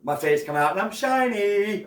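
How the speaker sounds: hammed-up stuffing bragging about its bath; silly stuffing voice. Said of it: "it's gonna be like".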